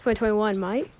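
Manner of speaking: put-on joking Australian accent. Ribbing a friend on the podcast, mock Australian accent. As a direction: put on a casual Aussie accent. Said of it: "Just really good Australian accent".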